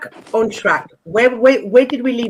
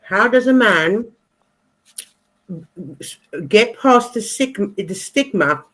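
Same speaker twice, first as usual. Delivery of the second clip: mouth full. Real, not acted. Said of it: "I've got a mouthful of sausage".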